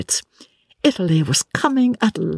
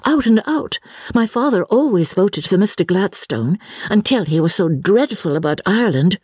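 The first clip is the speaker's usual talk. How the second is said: earnest exclamation; 5 semitones higher than usual. Acted. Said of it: "exclaimed Lucy".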